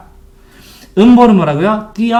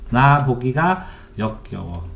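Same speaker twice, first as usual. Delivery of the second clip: slow reading demo; 4 semitones lower, 6 dB quieter, slower than usual. Shown as a demonstration. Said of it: "이렇게 되세요".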